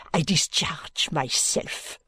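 proud French maid. Acted. Maid's voice.

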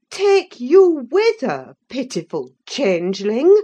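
scorn his notion; scornful exclamation. A narrator's reading. Nelly scornfully exclaiming at Linton's plan. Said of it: "I exclaimed".

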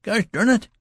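wounded youth snapping at his friend; sharp irritation. A narrator's reading. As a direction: explode at the clumsy helper. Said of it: "he said in a sharp irritation".

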